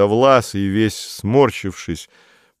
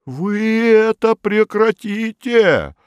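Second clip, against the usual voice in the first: high, slow stern official; unbending official; 4 dB louder, much slower than usual. A narrator's reading. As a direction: lay down the law, pompous. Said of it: "непреклонный Модест Матвеевич".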